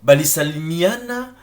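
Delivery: slow, careful "Balisalimiana"; Swahili word spelled out. Shown as a demonstration. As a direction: sound out "Balisalimiana" syllable by syllable. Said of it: "Je suis en train de conjuguer". (prononcer lentement « Balisalimiana »)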